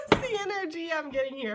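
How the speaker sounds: high, amused laugh in the words. Real, not acted. Reader cracking up after her Tiny Tim bit, laughing. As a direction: talk through a real giggle.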